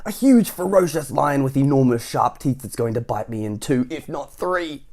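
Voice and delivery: very high, loud escalating wail; hammed-up panic. Mister Jelly imagining a lion, wailing in escalating panic.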